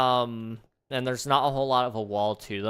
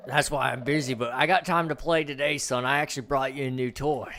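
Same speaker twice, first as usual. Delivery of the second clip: playful dad; 3 semitones higher, 4 dB louder than usual. Acted. Dad voice in skit.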